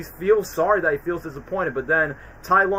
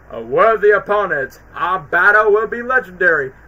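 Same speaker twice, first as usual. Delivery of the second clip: villain voice; 2 semitones higher, 8 dB louder than usual. Retold or imitated. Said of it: "Tai Lung was like".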